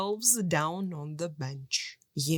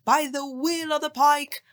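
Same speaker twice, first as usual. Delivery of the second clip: louder, higher magic command; shouted spell; 6 semitones higher, 6 dB louder than usual. A narrator's reading. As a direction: call out the charm with force. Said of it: "and shouted".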